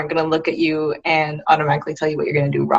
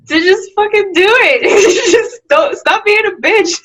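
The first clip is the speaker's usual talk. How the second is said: booming motivational speech; 13 semitones higher, 6 dB louder than usual. Pretend. Older self's advice, excited.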